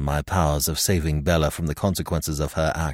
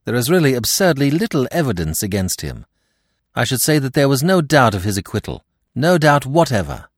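higher, emphatic assurance; exclaiming; 6 semitones higher, 5 dB louder than usual. A narrator's reading. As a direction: insist keenly, stressing each denial. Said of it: "I exclaimed".

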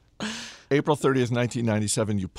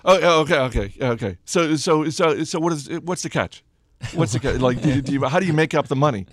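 higher, louder mock suspicion; stumbling, repetitive, pitched-up disbelief; dumbfounded reporter; 5 semitones higher, 5 dB louder than usual. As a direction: imitate a baffled reporter hunting for the catch. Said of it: "some of them were flat out dumbfounded".

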